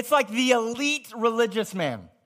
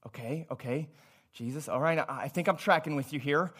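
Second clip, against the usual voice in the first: mock Nicodemus; 9 semitones lower, 8 dB quieter than usual. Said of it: "He's like".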